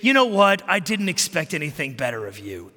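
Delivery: contemptuous put-down. Retold or imitated. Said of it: "sit there and say".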